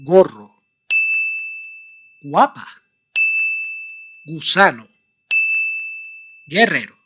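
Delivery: ten words said one by one with pauses; Spanish words. Shown as a demonstration. Teacher running a ten word pronunciation drill. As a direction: model each word, leaving time to repeat. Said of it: "how many of these ten words".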